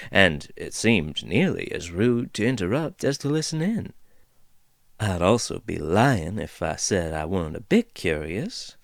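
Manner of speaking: lightly voiced folksy dwarf, amused; easygoing dwarf teasing the intruders; chatty dwarf woman. Dwarf figure rambles.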